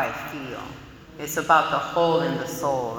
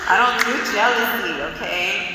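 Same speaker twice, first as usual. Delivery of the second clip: higher and louder, sassy and laughing; defiant denial; 4 semitones higher, 4 dB louder than usual. Retold or imitated. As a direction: toss it off with attitude. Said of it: "And I'm like".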